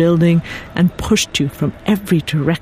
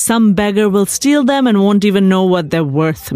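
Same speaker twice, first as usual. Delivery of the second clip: proud fussing; 4 semitones higher than usual. Acted. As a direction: insist the leather is precious. Husband fussing over leather shoes.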